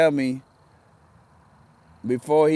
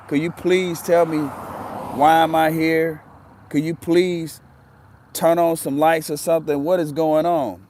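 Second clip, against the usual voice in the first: desperate pleading; 4 semitones higher, 4 dB louder than usual. Retold or imitated. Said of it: "I was shamed".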